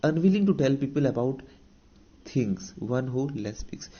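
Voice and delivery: very slow, word by word, as if for notes; dictating a definition to students; slow dictation. Shown as a demonstration. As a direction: read it out slowly so the class can write. Teacher reads English definition aloud.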